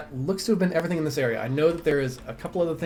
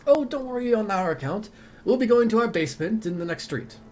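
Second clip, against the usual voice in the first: higher and louder, confident; cheerful dwarf reassuring; 4 semitones higher, 3 dB louder than usual. Acted. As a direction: assure the stranger about Lambkin.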